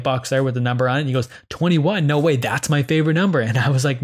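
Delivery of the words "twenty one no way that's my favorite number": higher, lightly excited quote; retold pleasant surprise. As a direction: imitate a guest's delighted reaction, a touch raised. Retelling guest's delighted surprise at number.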